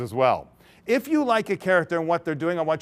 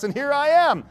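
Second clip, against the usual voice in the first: much higher here I am; triumphant finish; 9 semitones higher, 4 dB louder than usual. Acted. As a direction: land the happy ending. Miss A ends her tale.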